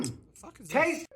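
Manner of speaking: loud appalled what-is-this; shocked disbelief. Real, not acted. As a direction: blurt it out, horrified by the food. Reacting to gross recipe.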